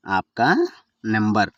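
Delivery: ఆప్కా stretched and rising, pause, then number; word by word. Shown as a demonstration. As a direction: split ఆప్కా from number for learners. Teacher repeats phrase word by word. (పదం పదంగా విడదీసి)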